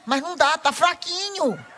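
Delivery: imitating a participant whining that the balloon is weak; whiny complaint. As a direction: drag out a mock complaint like a sulking friend. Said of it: "Ela falou pra mim".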